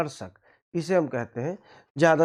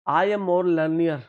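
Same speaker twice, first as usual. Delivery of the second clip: slow wrong example; 6 dB louder, much slower than usual. Shown as a demonstration. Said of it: "गौर करिए".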